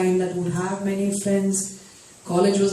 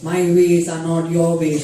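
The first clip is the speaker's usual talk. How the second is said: louder, pointed reading aloud; retold angry recital of a verse; 3 semitones lower, 6 dB louder than usual. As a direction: read it out as if cross. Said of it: "She was so angry".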